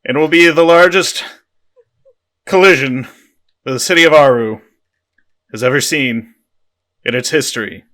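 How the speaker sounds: measured speech with pauses between phrases; mock-solemn commander's address; Independence Day speech. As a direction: announce it as a movie rallying speech. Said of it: "I'm gonna do the Independence Day speech".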